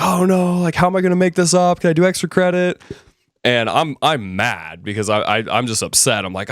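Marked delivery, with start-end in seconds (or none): 0.0-2.8 high, fast, panicky student voice; mock panic, pitched high and rushed; panicked students. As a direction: squeak it out like a worried straight-A student. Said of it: "They're like".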